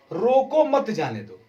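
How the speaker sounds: रोको said as its own command, then मत जाने दो; pause after रोको. Shown as a demonstration. Teacher showing students the intended comma, रोको set apart from मत जाने दो. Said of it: "हमारा कामा यहां पर है".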